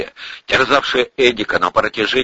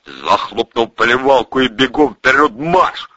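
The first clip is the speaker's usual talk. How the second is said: raised-pitch drill command; brusque military-style order; barked order; 4 semitones higher than usual. A narrator's reading. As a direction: bark it at a prisoner. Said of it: "рявкнул Протасов".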